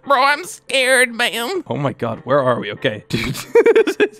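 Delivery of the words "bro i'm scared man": slow, raised, drawn-out mock fear; mock scared players. Gamer quotes everyone aboard the plane, mock-scared. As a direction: imitate frightened buddies, stretching it. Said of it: "Everyone's just like".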